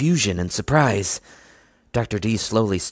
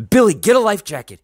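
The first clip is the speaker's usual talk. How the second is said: high, loud order; full high-pitched shout; urgent yell; 12 semitones higher, 7 dB louder than usual. A narrator's reading. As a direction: yell instructions in an emergency. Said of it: "he yelled".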